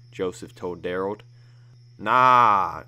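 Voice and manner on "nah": a hard, much louder no; blunt loud refusal. Acted. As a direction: shut the argument down. Daryl refuses, grabs the gun.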